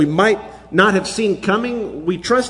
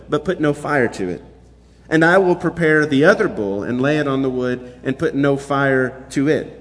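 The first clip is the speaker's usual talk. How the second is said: scripture reading. Acted. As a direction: read it out to the congregation with weight. Reads the scripture passage aloud.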